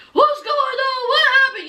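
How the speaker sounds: high-pitched mock alarm; agitated questioning. Retold bewildered man demanding answers.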